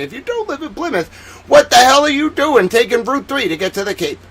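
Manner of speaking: loud Boston traffic rant, climbing in pitch; Boston accent. Shown as a demonstration. Boston local giving route advice, exasperated Boston accent. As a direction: build to a worked-up Boston driver's outburst. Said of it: "I love my accent from Boston".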